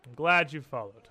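grave, formal church leader; solemn priest. Acted. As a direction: speak with calm clerical authority. GM voices the Archbanker.

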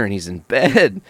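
usual speaking voice

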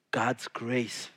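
unvoiced, intimate whisper. Real, not acted. Preacher whispering about grace to the congregation. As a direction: hush and draw them in.

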